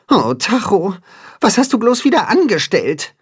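a sighing, fond reproach. A narrator's reading. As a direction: sigh it out over a friend's mischief. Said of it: "seufzt Timme".

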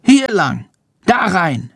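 high, squeaky little bat. A narrator's reading. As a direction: pitch up into a tiny creature voice. Bat character Chandor voiced.

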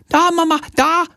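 put-on high, bawling little child; bawling toddler. A narrator's reading. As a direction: wail it like a small girl pulling at mum. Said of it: "plärrt sie".

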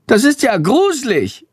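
high-pitched, appalled squeak; high little creature, horrified; creeped-out bat. A narrator's reading. Horrified bat reacts to freezing.

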